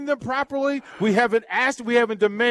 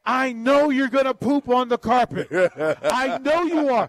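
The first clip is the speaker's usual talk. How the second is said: talking to a puppy; 3 semitones higher than usual. Retold or imitated. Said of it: "and just say".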